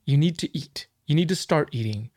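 pleading pep talk. Retold or imitated. Keeper coaxing his scared snake to eat, earnest pleading. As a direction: gently beg the snake to eat, voice lifted high. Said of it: "I'm gonna be like".

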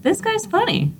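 squeaky high quoted aside; high mock voice. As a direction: pitch way up for the quip. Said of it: "that's when I said".

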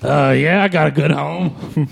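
slow, smug mock applicant; a hint of a clueless adopter. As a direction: drag out the fake reassurance. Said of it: "you just walk in".

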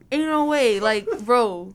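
hammed-up incredulous outburst; retold disbelief. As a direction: protest loudly as if cheated, playing it up. Retells outraged reaction to lost money.

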